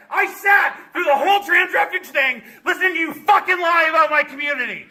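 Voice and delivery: furious shouted rant; real rage, pushing through every word; angry yelling. Real, not acted. Angry protester yelling at committee.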